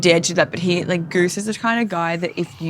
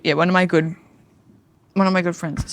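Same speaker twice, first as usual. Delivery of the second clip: holding back hiccups; talking through hiccups; suppressing hiccups. Real, not acted. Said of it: "sorry, I have hiccups".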